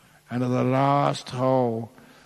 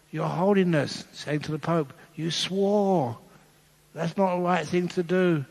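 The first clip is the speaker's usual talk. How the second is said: higher prim nun's voice, gently scolding; a lightly voiced disapproving nun; 5 semitones higher than usual. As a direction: play a prim nun telling off the Pope.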